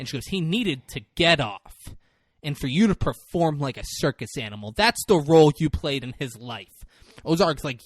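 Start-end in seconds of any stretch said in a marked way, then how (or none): 0.3-6.7 mildly raised voice, punching key words; retold yelling. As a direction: imitate a lawyer laying into a witness. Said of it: "yelling at him".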